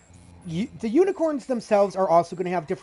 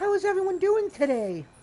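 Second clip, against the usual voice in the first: very high, quick, squeaky put-on voice; 12 semitones higher than usual. Streamer showing viewers the voices he can easily do, showing off a put-on voice. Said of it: "I can easily do voices like like I can do this".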